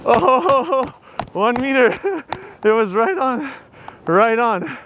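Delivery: laughing. Real, not acted. Surprised laugh at accurate buzz.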